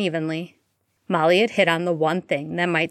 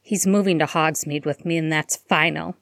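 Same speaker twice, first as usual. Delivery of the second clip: ordinary delivery, nothing marked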